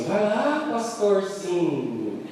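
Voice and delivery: imitação leve e arrastada de deboche; deboche da esposa. Retold or imitated. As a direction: um toque de zombaria, bem devagar. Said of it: "Ela ficou assim". (esposa provocando o marido pastor, deboche arrastado)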